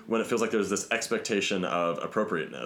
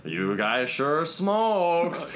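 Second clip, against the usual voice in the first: drawn-out yell; 5 semitones higher, much slower than usual. Retold or imitated. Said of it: "kept yelling that at us".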